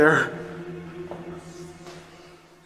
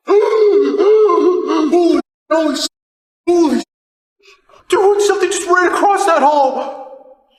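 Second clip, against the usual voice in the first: real panicked cries, pitch jumping higher; frightened yelps; 6 semitones higher than usual. Real, not acted. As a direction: gasp and cry out in genuine fright. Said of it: "I'm whimpering and screaming like a little freaking baby".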